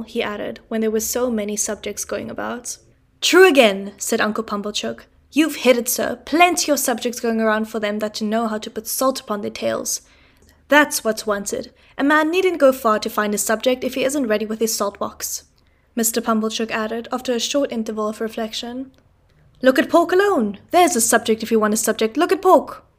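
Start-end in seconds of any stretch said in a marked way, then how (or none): 3.2-15.4 loud, blustering agreement; pompous uncle. Acted. Pumblechook loudly backing up Mr Wopsle at dinner, blustering. 19.6-22.8 pompous uncle. Acted. Pumblechook pontificating to the table about pork, booming.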